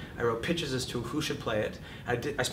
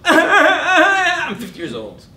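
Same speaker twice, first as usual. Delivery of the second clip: high, slow, laughing whine; high mock whimper through a laugh; mocking his nervous self; 14 dB louder, much slower than usual. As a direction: squeak it out like a nervous kid. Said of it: "I know that I'm gonna go".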